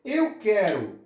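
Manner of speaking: "Eu quero um carro" slowly, each word set apart; slow model sentence. Shown as a demonstration. Teacher slowly models a Portuguese sentence. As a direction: spell the sentence out slowly for the class. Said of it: "se eu falar assim".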